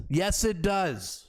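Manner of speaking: "Yes, it does" drawn out slowly, each word weighted; slow emphatic retort. Shown as a demonstration. Host retorting to the minister's question, slow and emphatic.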